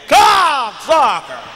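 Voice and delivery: loud, slow, drawn-out white man's curse; white person cussing. Retold or imitated. Imitating a white man pointing at a driver, drawn-out loud curse. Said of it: "They're pointing at you when they say".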